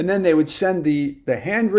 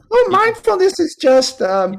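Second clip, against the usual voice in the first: put-on cute sweet old lady voice, higher and louder; 5 dB louder than usual. Retelling what an old retreat teacher casually said: cute little sweet voice. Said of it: "she's an old lady with a cute little sweet voice".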